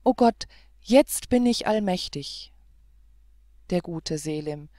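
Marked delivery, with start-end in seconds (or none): 0.0-2.5 louder, rising with joy; elated cry. Acted. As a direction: exclaim it in triumph. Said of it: "rief Selim".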